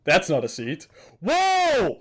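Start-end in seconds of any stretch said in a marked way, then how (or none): 1.2-2.0 high startled whoa into laughter; squealing surprise; shocked whoa. Real, not acted. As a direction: gasp then burst out laughing. Shocked by scene, bursts laughing.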